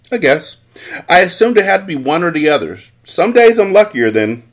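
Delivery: a lord brushing off the question; a hint of the smug Count; lightly voiced Count. The Count explains himself.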